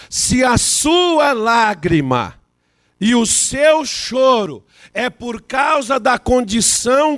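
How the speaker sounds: loud, slow, ringing sermon cadence; preaching at full force. Acted. Pastor exhorting the congregation, loud and slow. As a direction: thunder it out, hammering each "por causa".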